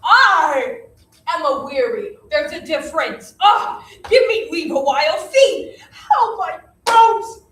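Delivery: put-on complaining old nurse. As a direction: whine like an aching old woman. Nurse complains of aching bones.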